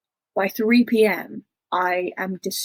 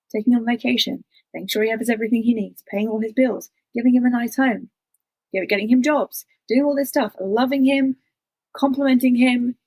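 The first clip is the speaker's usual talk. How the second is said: growing louder with each item on the list; rising outrage; 3 semitones higher, 4 dB louder than usual. Retold or imitated. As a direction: pile up the grievances, louder and louder. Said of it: "I was like".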